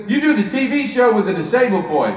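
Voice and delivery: lightly voiced celebrity statement; a hint of Eddie Murphy, falling off at the end; Eddie Murphy impression. Comedian retells Eddie Murphy naming his show, light impression. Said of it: "I'm gonna do a terrible impersonation".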